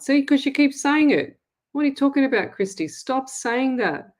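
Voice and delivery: wag a finger at her; playful exasperated scold; exasperated telling-off. Retold or imitated.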